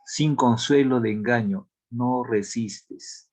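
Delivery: slow, measured verse reading; poem recitation. Acted. Teacher reading Unamuno's verse to a class, slow recitation. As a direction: recite slowly, pausing after each line.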